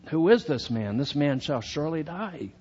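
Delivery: a touch of royal rage at the thief; furious king. Retold or imitated. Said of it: "furious. He's in a rage".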